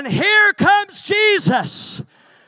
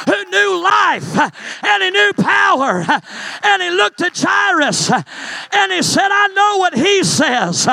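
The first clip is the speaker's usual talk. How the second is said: full-force preaching; 2 semitones higher than usual. Acted.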